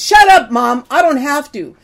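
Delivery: imitating a kid shouting at his mom; kid yelling back. Kid in a TikTok prank yelling at mom, mild mock yell. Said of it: "And the kid yells".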